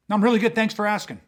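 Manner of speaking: drip with sarcasm, like you mean the opposite; annoyed thanks that means leave me alone; sarcastic. Shown as a demonstration. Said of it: "there's so much sarcasm".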